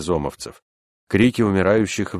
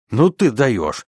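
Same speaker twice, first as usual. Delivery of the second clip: louder, higher teasing exclamation; mocking; 6 semitones higher, 5 dB louder, slower than usual. A narrator's reading. Unseen comrade answers from the dark, mocking. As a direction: tease a pal with mock amazement. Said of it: "насмешливо ответила полутьма".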